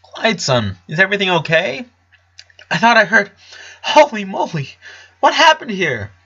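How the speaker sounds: a father startled by the mess; alarmed father. A narrator's reading. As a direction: Howard alarmed on seeing the room.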